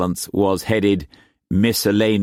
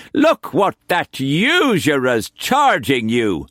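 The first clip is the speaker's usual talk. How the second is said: rushed and breathless outrage; 7 semitones higher than usual. Acted. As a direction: pant it out indignantly.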